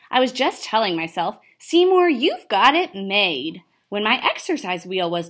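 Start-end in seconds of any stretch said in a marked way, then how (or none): 1.6-3.6 excited self-talk. Acted. Hamster cheering himself on.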